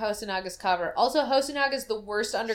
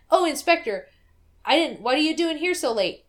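mock startled host; 6 semitones higher, 3 dB louder than usual. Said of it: "He would have said".

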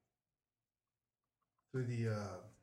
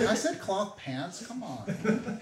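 higher, slow, laughing through it; laughing, come on; laughing protest; 6 semitones higher, much slower than usual. Real, not acted. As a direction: defend yourself while cracking up. Laughing defence.

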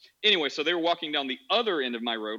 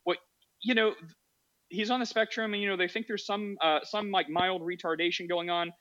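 innocent neighbor; 4 semitones higher than usual. Retold or imitated. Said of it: "So she innocently, um, said".

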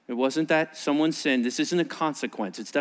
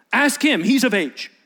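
high, loud brush-off; parents deflecting; 6 semitones higher, 5 dB louder than usual. Acted. Fearful parents deflecting to the Pharisees, loud and high. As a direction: push it off onto him.

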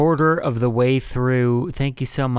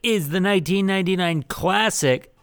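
movie trailer voice; 7 semitones higher than usual. Pretend. Mock trailer announcement.

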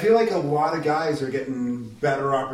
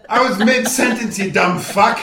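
mock angry yell; 7 semitones higher, 7 dB louder than usual. Interrupted host yells at caller.

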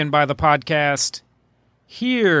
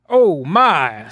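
Oh My sound drop; 5 dB louder than usual. Pretend. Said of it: "sound drop prepared".

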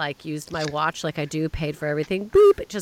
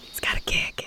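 whispered. Real, not acted. Savouring snack.

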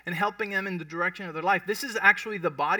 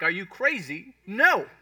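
incredulous; 3 semitones higher, 5 dB louder, slower than usual. Retold or imitated. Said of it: "Jesus is like".

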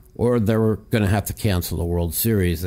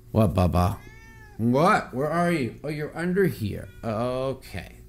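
pet talk; 5 semitones higher than usual. Real, not acted. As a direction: coo at the kitty. Talking to his cat Bubba.

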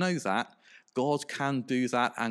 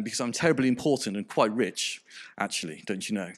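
put-on understated posh accent, sinking at the end; lightly voiced self-important posh toff; mock-posh aside, tossed off; 3 semitones lower, faster than usual. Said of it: "read this character with rather a posh accent".

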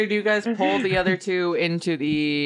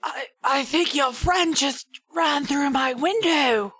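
meek shopkeeper voice; 9 semitones higher, slower than usual. Acted. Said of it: "Gentleheart's gonna be like".

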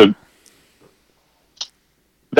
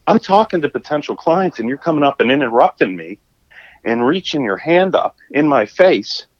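indignant rant; 5 semitones higher than usual. Retold or imitated. Confronting the interrupting man.

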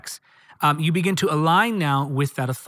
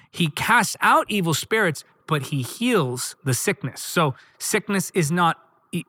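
normal talking voice

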